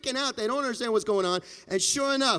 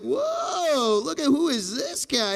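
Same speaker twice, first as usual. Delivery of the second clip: surprised whoa; 4 semitones higher, 5 dB louder, slower than usual. Acted. Guests gawk at fancy newcomer.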